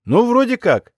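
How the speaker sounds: a lightly voiced scared kid; young lad voice. Same lad continues.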